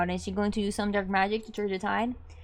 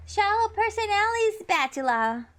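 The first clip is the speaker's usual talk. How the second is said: excited call-out; 10 semitones higher than usual. Acted. Shouted special cooking move.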